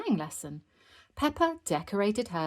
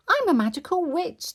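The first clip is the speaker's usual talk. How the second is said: high, loud proud announcement; raised child-character voice; excited child; 12 semitones higher, 7 dB louder than usual. A narrator's reading. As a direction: announce it like a thrilled little girl. Child proudly announcing her costume.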